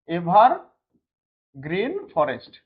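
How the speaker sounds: এভারগ্রিন ফরেস্ট drawn out very slowly, word by word; slow, spaced-out repeat. Shown as a demonstration. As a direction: dictate the term slowly to a class, pausing before ফরেস্ট. Teacher repeats term slowly for class. (ধীরে ধীরে, টেনে টেনে বলা)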